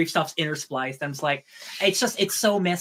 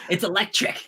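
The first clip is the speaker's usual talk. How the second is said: laughing; 4 semitones higher than usual. Real, not acted. Laughing at a joke.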